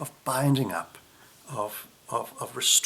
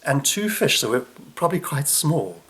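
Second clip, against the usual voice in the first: mock exasperation; 3 dB louder than usual. Disciples scoffing at Jesus over the small food, mock incredulous. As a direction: scoff at the tiny lunch, a little fast. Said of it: "There's almost a kind of a like".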